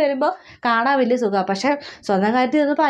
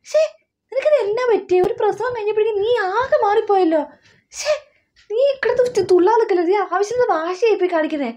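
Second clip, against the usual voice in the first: exasperated scolding; 4 semitones higher than usual. Acted. Mother berates sulking daughter.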